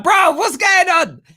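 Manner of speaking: high-pitched, slowed, incredulous "bro"; a high, drawn-out, mock-baffled question; baffled disbelief. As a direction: act stunned, like it makes no sense. Baffled at accent mismatch.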